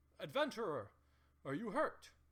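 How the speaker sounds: loud shout, calling out. Voicing Trex calling down a hallway to an adventurer: shouting down a hallway. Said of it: "Trex kind of shouts down the hallway".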